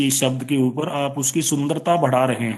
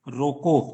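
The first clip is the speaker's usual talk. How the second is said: रोको alone, then a clear pause for the comma; pause after रोको. Shown as a demonstration. Teacher showing students where the comma falls, pause after रोको. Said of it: "उसके बाद आपने comma लगाया".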